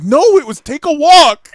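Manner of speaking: high, loud insistent correction. Real, not acted. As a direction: set the record straight loudly. Correcting friend's retelling of his line.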